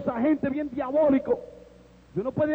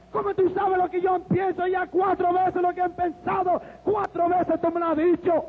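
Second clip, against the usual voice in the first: raised-pitch, insistent demand; heated confrontation; 5 semitones higher than usual. Retold or imitated. Young man pinning the Christian to a wall, heatedly demanding. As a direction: press the accusation hard, stretching the words.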